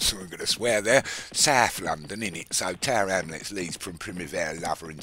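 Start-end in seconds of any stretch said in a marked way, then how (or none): 1.3-2.5 tossed-off Cockney tag question; a casual Cockney "innit" to close; light mock Cockney aside. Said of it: "Maybe I should talk like Cockney".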